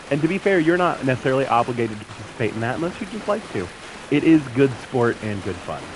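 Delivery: upbeat real estate agent pitch; realtor voice. Acted. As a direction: sell the neighborhood like a realtor. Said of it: "the realtor voice".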